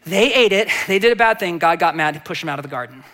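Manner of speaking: quick, simplified kiddie retelling; storytelling to child. Retold or imitated. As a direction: tell it like to a five-year-old, breezy. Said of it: "tell the story to a five-year-old".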